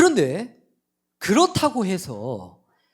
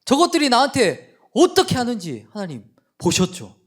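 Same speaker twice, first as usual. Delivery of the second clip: loud, higher, fuming prayer of grievance; huffing complaint; 7 semitones higher, 7 dB louder than usual. Retold or imitated. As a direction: huff and shout your grievance at God. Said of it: "씩씩거리면서".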